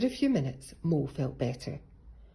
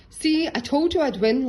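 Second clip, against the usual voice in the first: laughing; 10 semitones higher, 9 dB louder than usual. A narrator's reading. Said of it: "laughed Rabbit".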